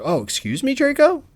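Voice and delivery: feigned polite surprise, leaping up on the name; put-on offended politeness; mock-innocent taunt. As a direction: needle him with a sing-song question. Acted taunting comeback to Draco.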